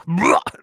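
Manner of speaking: comic noise of revulsion; disgusted noise. Real, not acted. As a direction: recoil noisily at the thought of tripe. Reacting to tripe as guess.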